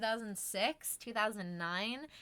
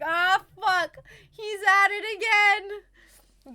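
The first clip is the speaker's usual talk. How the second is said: annoyed neighbour; 8 semitones higher, 11 dB louder, slower than usual. Retold or imitated. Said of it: "It's like".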